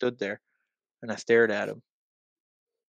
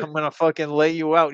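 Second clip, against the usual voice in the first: raised, higher angry threat; retold threat; 4 semitones higher, 5 dB louder than usual. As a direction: warn him with voice pushed up and louder. Threat in acted quarrel.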